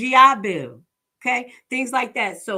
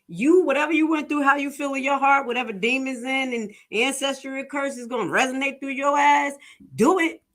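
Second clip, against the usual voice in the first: retold rising telling-off; 4 semitones higher than usual.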